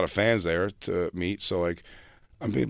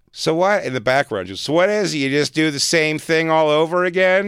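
a high, slightly louder nagging stepmother; 7 semitones higher, 5 dB louder than usual. Retold or imitated. Stepmother quizzing the comedian about his act, pitched high and nagging. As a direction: needle him like a skeptical stepmom. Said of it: "because she goes".

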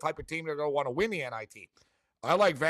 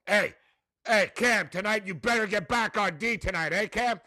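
mock coach barking at players; coach yelling; 4 semitones higher than usual. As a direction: imitate a coach calling out a player. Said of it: "yelling at 'em on the team bus".

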